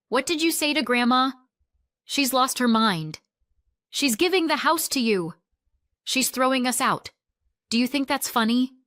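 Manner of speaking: high, loud angry accusations; shouting. A narrator's reading. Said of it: "Then came the shouting".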